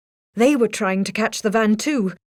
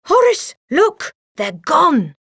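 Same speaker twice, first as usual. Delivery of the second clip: high, loud alarmed call; 7 semitones higher, 5 dB louder than usual. A narrator's reading. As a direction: shout to alert your partner. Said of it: "he called".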